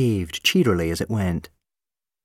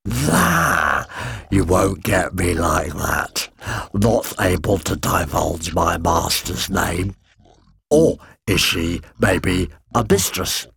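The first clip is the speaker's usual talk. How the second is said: amused monster voice; slower than usual. Acted. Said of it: "The monster laughed".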